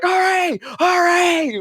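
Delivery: high, hammed-up cheering; mock cheer. Party cheering as they reach the village, high mock cheer. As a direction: cheer it like a happy adventurer.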